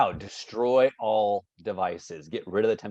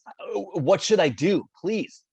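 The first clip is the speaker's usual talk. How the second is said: higher-pitched comic plea for help; mock desperation; 6 semitones higher than usual. Host begs kid panel for advice, hammed-up desperation. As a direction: play up the helpless begging.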